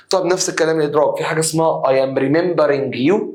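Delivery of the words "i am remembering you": "I am remembering you" dragged slowly, questioning; slow doubtful rise on you; mock wrong form. Shown as a demonstration. Teacher showing students the wrong form, slow. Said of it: "لا، اسمها".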